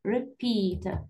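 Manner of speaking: repeat, weight on the final syllable; stress on PEAT. Shown as a demonstration. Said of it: "Stress on the second syllable".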